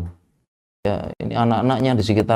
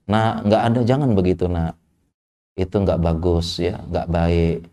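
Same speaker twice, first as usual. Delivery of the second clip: gentle parent; 3 semitones lower than usual. Retold or imitated. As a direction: gently talk a child out of misbehaving. Parent gently correcting a child.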